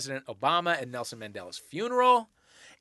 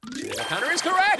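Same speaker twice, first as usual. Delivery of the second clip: much higher game-show ruling; excited announcement; 11 semitones higher than usual. Real, not acted. Host confirms the answer about the open letter, excited. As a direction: lift the pitch high to announce it.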